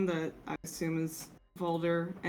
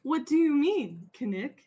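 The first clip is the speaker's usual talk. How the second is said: robot voice; 7 semitones higher than usual. Acted. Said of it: "sounds even more like a robot".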